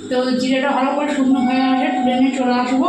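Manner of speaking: talking with a toothbrush in mouth; while brushing teeth. Real, not acted. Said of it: "তো সেই জন্য একটুখানি brush করছি".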